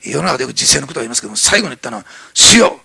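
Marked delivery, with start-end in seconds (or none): 2.3-2.8 cries out high and loud; Stephen's loud dying cry. Acted. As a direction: call out to the Lord with full voice. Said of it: "大声で言った。".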